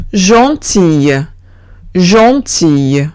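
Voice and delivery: "gentille" slowly, ending in a y glide; ille as y. Shown as a demonstration. Teacher showing LL after I, slow y ending. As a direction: say "gentille" as zhon-teey, no L. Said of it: "sí que se pronuncia como".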